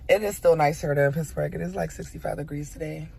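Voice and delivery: speech slurred by sore teeth; talking funny from teeth. Real, not acted. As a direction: talk around a sore tooth. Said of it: "Still talking funny 'cause of my teeth".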